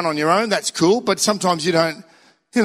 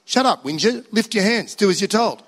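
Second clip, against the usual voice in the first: lightly voiced stern inner voice; firm inner voice; 3 semitones higher than usual. The godly inner voice scolding the whinger, mildly firm. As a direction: tell the whiner off, briskly. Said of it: "the godly, submissive voice that says".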